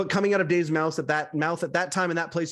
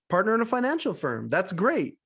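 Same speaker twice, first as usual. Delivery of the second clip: higher, lilting repeat of the answer; impressed echo; 4 semitones higher than usual. Retold or imitated. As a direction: echo it back like an interested host. Host echoes Mike's answer, impressed.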